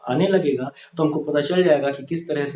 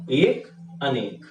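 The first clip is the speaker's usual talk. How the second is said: एक, अनेक spelled out slowly with a pause between; drilling एक, अनेक slowly for students; slow recitation; slower than usual. Shown as a demonstration. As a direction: say एक, अनेक slowly like a rule to memorise. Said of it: "हमको ध्यान क्या रखना है".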